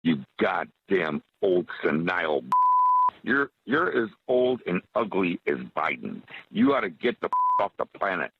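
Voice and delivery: angry voicemail over a phone line; furious caller on a recorded message; answering machine message. Real, not acted. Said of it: "This message is from August".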